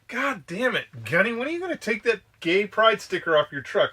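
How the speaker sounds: exasperated boss yelling across the office; mock angry yell. McCrate scolds Gunny about his truck sticker, mock angry yell.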